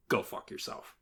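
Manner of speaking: hissed whisper; whispered curse. Real, not acted. Telling fans of a band off, in a whisper. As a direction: breathe it out unvoiced.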